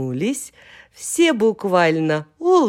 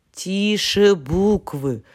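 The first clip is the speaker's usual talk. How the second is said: slow, drawn-out hushing reproach; mock-stern chorus; scolding call; 3 semitones higher, 3 dB louder, slower than usual. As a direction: call the room to order. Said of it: "закричали гласные".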